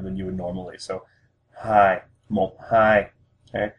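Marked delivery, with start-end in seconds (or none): 1.6-2.0 "hi" held a moment longer, level; held flat tone. Shown as a demonstration. Teacher showing learners the number two, "hi" flat and held. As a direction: stretch "hi" slightly on one even pitch. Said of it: "hold it for a brief moment longer".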